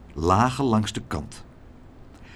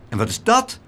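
high, excited question; calling out; 10 semitones higher, 3 dB louder than usual. A narrator's reading. Laura asks meneer Tump what he carries, calling out. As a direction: exclaim it with rising curiosity. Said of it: "riep Laura".

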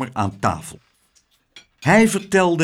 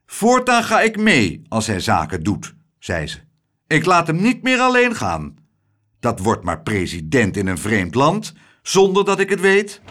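louder, stern matron; strict lady; 4 dB louder than usual. Acted. Mrs Tump scolding her husband, stern. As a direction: lay down the law firmly. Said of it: "hele strenge dame".

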